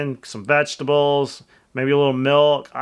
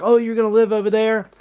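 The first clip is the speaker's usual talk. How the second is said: incredulous mock voice, pitched up; mocking disbelief; 6 semitones higher than usual. People who laughed at him, mocking his house choice with high-pitched disbelief. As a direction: imitate people sneering at the buy.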